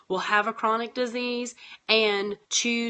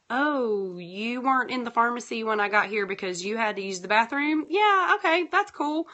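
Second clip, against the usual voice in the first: understanding customer; 3 semitones higher than usual. Acted. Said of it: "having people that understand".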